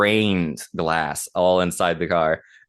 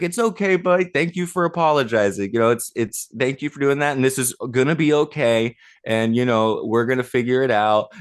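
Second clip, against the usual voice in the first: reassuring; 5 semitones higher than usual. Retold or imitated. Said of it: "I was like".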